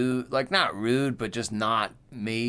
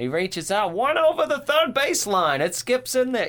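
put-on very high, swooping, sing-song old-time radio play-by-play announcer; 13 semitones higher, 5 dB louder than usual. Two speakers riff on old baseball radio calls, one in old-time radio announcer voice. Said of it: "like the old-time announcer voice".

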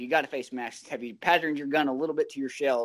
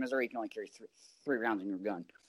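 ordinary talk, nothing marked

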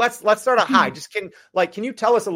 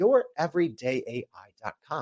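slower, lower and quieter delivery; 4 semitones lower, 6 dB quieter than usual. Repeating the podcast's website address for listeners, said again slower. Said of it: "let me say that again slower".

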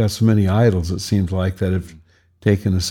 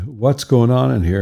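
firm, mildly raised, demanding voice with push; 4 semitones higher than usual. Recounting opening the door on his wife and daughter screaming, retelling a loud question. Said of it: "in a pretty loud voice".

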